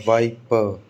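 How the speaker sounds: वाइपर with stressed वाइ and weak final पर; stress on first syllable. Shown as a demonstration. Teacher demonstrating the noun rule, वाइपर stressed on वाइ. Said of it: "तो वाई पर stress आएगा".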